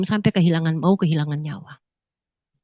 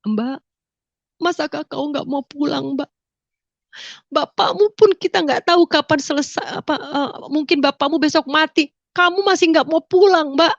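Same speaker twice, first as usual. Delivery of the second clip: high, pleading, tearful mother; a mother weeping down the phone, begging her daughter to come home; mother crying; 7 semitones higher, 3 dB louder than usual. Retold or imitated. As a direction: plead through tears like a desperate mother. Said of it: "bilang sambil menangis".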